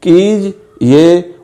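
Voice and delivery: "कीज ये" said very slowly as keej then ye; slow syllables. Shown as a demonstration. Teacher reading an example word to students in slow syllables. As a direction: draw "कीज ये" out in two slow parts. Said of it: "अलिफ नहीं है".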